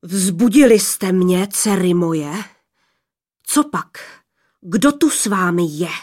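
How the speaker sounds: lightly voiced fearsome father; menacing thunder voice. A narrator's reading. Sky father questioning his daughters, mildly menacing. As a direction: rumble suspiciously as a giant woken up. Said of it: "zněl hrozivě až ousko".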